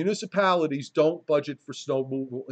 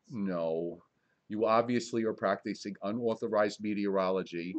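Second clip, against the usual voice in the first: mock kindly; 5 semitones lower, 5 dB quieter than usual. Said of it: "and very kindly just say".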